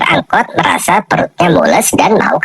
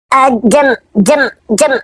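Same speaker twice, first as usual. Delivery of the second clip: a higher, sheepish stammer that climbs; embarrassed stammer; 6 semitones higher than usual. Acted. Pupil stammering to the teacher, higher and higher with embarrassment. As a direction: stumble on the word, too shy to say it.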